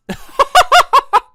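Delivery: high, loud sudden laugh; real loud laughing burst; loud burst of laughter. Real, not acted. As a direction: crack up out loud in disbelief. Boss stays silent, burst of laughter.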